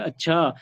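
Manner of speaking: "अच्छा" stretched a little; drawn-out अच्छा. Shown as a demonstration. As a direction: lengthen the end of अच्छा. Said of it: "थोड़ा और बढ़ा के लिखोगे". (थोड़ा खींचकर "अच्छा")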